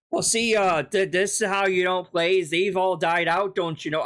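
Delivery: a hint of Canadian accent mocking the streamer; lightly put-on Canadian accent, teasing. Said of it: "I went for Canadian there".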